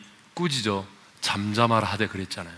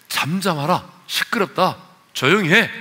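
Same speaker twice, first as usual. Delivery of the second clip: raised-pitch mock rebuke, getting louder; acted scolding; 5 semitones higher, 3 dB louder than usual. Preacher acting crowd hushing the beggar, mock scolding. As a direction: tell him off in short commands. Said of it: "그렇게 야단을 치고 꾸짖었지만".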